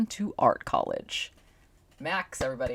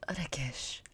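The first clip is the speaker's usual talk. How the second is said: put-on Indian accent; 7 dB quieter than usual. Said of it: "my accent for Rakesh".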